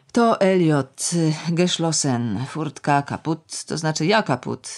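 tipsy bitter woman ranting; lightly voiced bitter drunk woman; Nina's tirade. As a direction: sneer and ramble at the girl.

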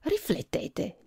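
slow, soft whispered threat; menacing whisper. A narrator's reading. The prince quietly warns the lawyer, whispered. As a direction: lean in and whisper it. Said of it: "gli disse".

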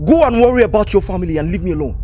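fast, irritated brush-off; hurried, cross order; angry dismissal. Acted. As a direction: rattle off the dismissal quickly.

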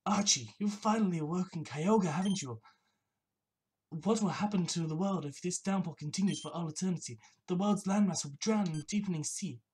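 lightly acted grave warning to an opponent; lightly voiced rival. Voices rival scolding Archie.

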